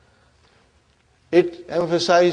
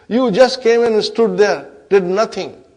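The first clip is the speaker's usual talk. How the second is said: louder, higher mock reproach; belittling; 4 semitones higher, 5 dB louder than usual. Inna reproaches idle lam, belittling. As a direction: throw their uselessness at them.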